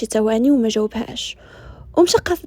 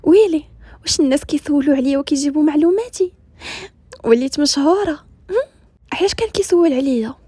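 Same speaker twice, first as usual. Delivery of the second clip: silly grin; 3 semitones higher than usual. Acted. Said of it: "ياسمين بواحد الابتسامة بلهاء".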